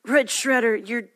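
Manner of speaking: slow, drawn-out words; slow menacing. Acted. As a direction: drag each word out. Hero line slowly.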